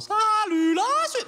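put-on high, slow, sing-song Swiss accent "Salut la Suisse"; mock Swiss accent. Comic mocking the French cliché of the Swiss accent, slow and high. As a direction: drag it out in a hammed-up Swiss accent. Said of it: "tout le monde parle genre".

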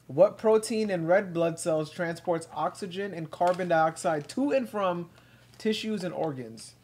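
slow, careful quiz question reading; quiz host reading. Acted. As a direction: read each option out slowly. Reads quiz questions aloud.

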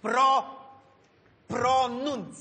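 "Pro-", pause, then a drawn-out "pronunț"; careful rolled r in "pronunț"; syllable-by-syllable demonstration. Shown as a demonstration. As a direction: break "pronunț" up for a pupil. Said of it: "Spune așa".

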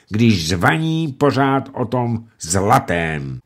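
furious roar. Acted. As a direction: order the gallows in rage. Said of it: "zařičel Lumej".

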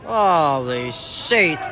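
very slow, drawn-out disbelief; stunned disbelief. Real, not acted. Gamer stunned by the play on screen, slow disbelief. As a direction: stretch it out, stunned.

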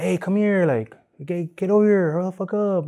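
imitated boss, pitched well up; bossy order. Ex-worker mimics his boss ordering him over, imitated bossy call. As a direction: order someone over like an impatient boss, high voice. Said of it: "one of my bosses, too, will be like".

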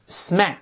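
smack read clearly as the English word; model reading. Shown as a demonstration. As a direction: say smack for the class to repeat. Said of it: "我们大声再读一遍".

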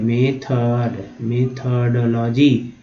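"मेथड" very slow and drawn out; broken-down pronunciation. Shown as a demonstration. Teacher repeating a word for learners, slow drawn-out "मेथड". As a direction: stretch both syllables of "मेथड". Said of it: "ऐसे तोड़ के पढ़ना है".

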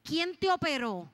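startled specialist, drawn-out question. Retold or imitated. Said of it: "quitó la máquina asustada y me dice".

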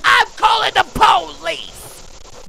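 high, slow, screamed cry for help; panicked shout. Real, not acted. Gamer screaming at a horror game. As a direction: yell it out in a panic.

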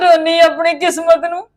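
tearful, bitter lament; crying. Acted. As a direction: sob over your own fate. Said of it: "ਰੋਈ ਕਿਉਂ ਜਾਨਾ ਵਾ".

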